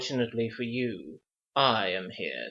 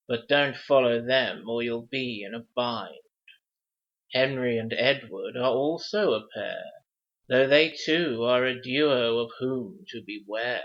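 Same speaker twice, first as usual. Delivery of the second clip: measured, rhythmic verse recital; reciting a riddle. Acted. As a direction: read it like an old riddle in rhyme.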